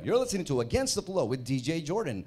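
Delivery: light radio host intro; a hint of radio host. Shown as a demonstration. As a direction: announce it like a DJ on air. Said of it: "ganitong ganito marinig nyo".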